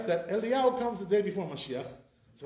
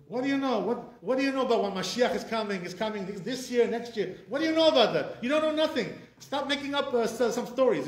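raised, higher-pitched scolding challenge; mildly heated telling-off; indignant rebuke; 4 semitones higher, 3 dB louder than usual. Acted. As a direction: take imagined know-it-alls to task. Rebuking absent rabbis for predictions.

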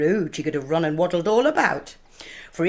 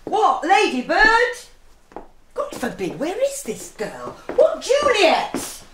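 calling for Juliet; 11 semitones higher than usual. Acted. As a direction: call her name across the house. Nurse calls Juliet through house.

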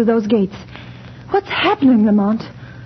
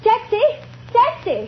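calling out; 8 semitones higher, slower than usual. Acted. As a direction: shout it high across the street. Hailing a cab on the street.

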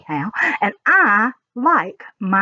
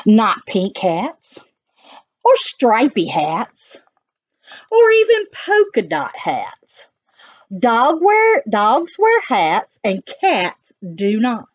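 sing-song it for the little ones; animated read-aloud of the dog's rhymes; reading to children; 2 semitones higher, slower than usual. Acted.

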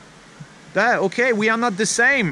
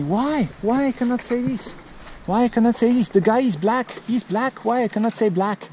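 lightly voiced puzzled kid, higher; questioning child; 5 semitones higher than usual. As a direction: imitate a child pressing for a reason. Voices his kid asking why.

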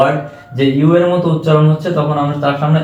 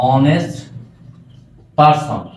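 he is an honest person, each word set apart by long pauses; much slower than usual. Shown as a demonstration. Teacher spells out the example sentence for students, word by word. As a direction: dictate it slowly, one word at a time. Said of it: "একটা প্রশ্ন এখানে খেয়াল করো".

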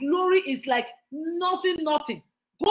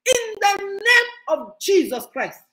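slow, crying prayer close; tearful prayer; 6 semitones higher, 4 dB louder, slower than usual. Real, not acted. Preacher praying for the congregation, slow and tearful. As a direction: let the voice break with emotion.

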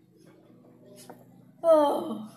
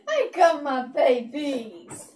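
laughing joyful coo; much slower than usual. Real, not acted. Owner delights in having her dogs with her. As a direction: savour each word with delight.

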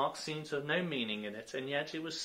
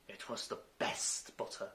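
meek; 6 dB quieter than usual. A narrator's reading. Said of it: "the March Hare meekly replied".

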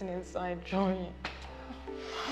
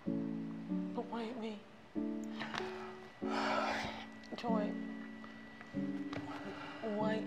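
tearful lament; 3 semitones lower, 9 dB quieter than usual. Acted. Heartbroken woman laments.

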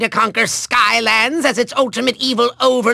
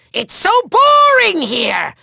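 high, drawn-out exasperated complaint; bored whine; 6 semitones higher, slower than usual. Acted. Villain fed up with the place, high drawn-out whine. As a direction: stretch BORING into a high whine.

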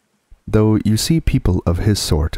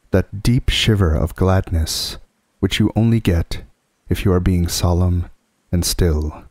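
plain reading voice

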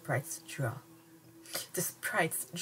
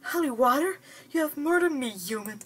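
shrieked much higher and louder; high keening scream; 9 semitones higher, 6 dB louder than usual. Acted. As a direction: scream it out, horrified and dying. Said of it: "screamed in a high, keening, horrible sound".

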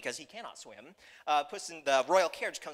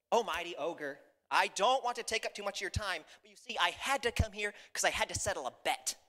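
lightly voiced flatterer, raised pitch; polite, wheedling cat; 5 semitones higher than usual. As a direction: humbly excuse yourself to a mighty ogre.

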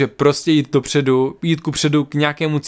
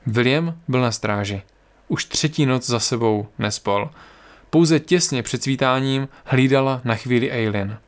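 calm story reading voice; story narration. A narrator's reading. Narrator telling listeners the journey south, calm story reading. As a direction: read the tale steadily to listeners. Reads fantasy story aloud.

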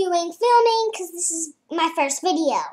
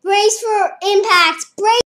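bracing for a crash; 3 semitones higher, 5 dB louder, slower than usual. Pretend. Acting out crash in game.

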